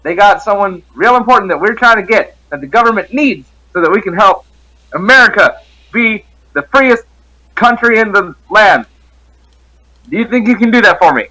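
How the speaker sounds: rally the townsfolk like a drill officer; soldier voice. Acted. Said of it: "in my best soldier voice".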